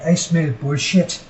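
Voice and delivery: a bad, slowed Irish accent on the line; mock Irish accent, clumsy and a bit slow; Irish Demon's line. Vlogger quoting Irish Demon in a bad Irish accent. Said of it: "That was a bad Irish accent".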